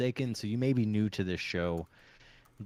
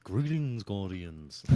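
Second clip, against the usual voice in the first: host intro; much slower than usual. Pretend. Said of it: "Let's start it off with".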